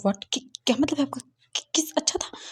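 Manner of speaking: high, startled disbelief; stunned boy's high-pitched squawk; shocked. Acted. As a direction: gasp it out in shock, pitch jumping up. Shocked reaction to kiss remark.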